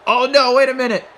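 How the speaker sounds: excited, alarmed call; alarmed exclamation. Real, not acted. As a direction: burst out as the match suddenly turns. Alarm at sudden turn in match.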